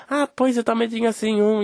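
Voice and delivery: imitating older lady. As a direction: drag it out like the neighbour. Voices older woman again.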